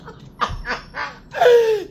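shrieking cackle of glee; high laughing. Real, not acted. Laughing at the enemies to her viewers.

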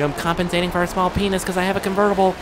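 lightly voiced boastful driver, sped up; mocking rival driver. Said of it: "at him, he's like".

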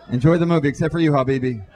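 loud, hammed-up pilot announcement; juiced-up airline captain.

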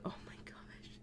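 soft unvoiced whisper. Real, not acted. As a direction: whisper so the dog sleeps. Whispering to avoid waking dog.

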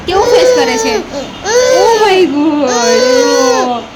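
playful oh my God; mock surprise. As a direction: put on a big playful shock for the baby. Reacting to baby's face.

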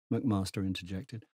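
usual speaking voice

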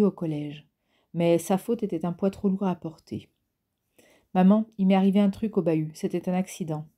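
steady audiobook reading of a novel chapter; story narration. A narrator's reading. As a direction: read it like a calm audiobook narrator.

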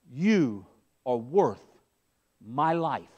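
low, soft and slow, as Jesus speaking; hushed tender quote. Acted. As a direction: let it drop to a near hush. Jesus' words, hushed reverent quote.

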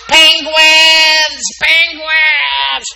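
high, loud delighted cry; excited shout. Real, not acted. Teacher thrilled by kids' penguin pictures, shouting. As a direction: call the word out with glee.

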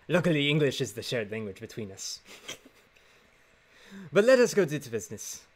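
put-on Spanish accent. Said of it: "a pretty good Puss in Boots".

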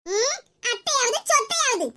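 slow, scornful retort; a touch of anger, drawn out; angry mother-in-law. Acted. Mother-in-law rebuffing her daughter-in-law's greeting, angry. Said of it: "மாமியார் கோவமா பேச மாதிரி இருக்கு".

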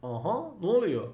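ordinary talk

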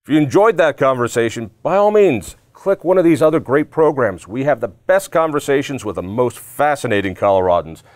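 upbeat channel promo with high-pitched punches on key phrases; host's outro plug. Acted. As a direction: sell the show to viewers, lifting the pitch, then settle at the close. Host reads channel outro.

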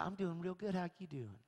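light imitation of a Georgia waitress's accent. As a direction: attempt a friendly Georgia Southern accent, not quite right. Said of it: "I love their accents".

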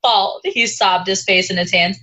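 put-on high, weepy sorority girl meltdown; bubbly sorority girl. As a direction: wail it like a dramatic sorority girl. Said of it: "read this paragraph in a sorority girl voice".

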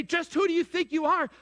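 a pointed challenge from Jesus; Jesus confronting. Acted. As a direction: voice Jesus asking it straight out. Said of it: "if he were to appear physically and say".

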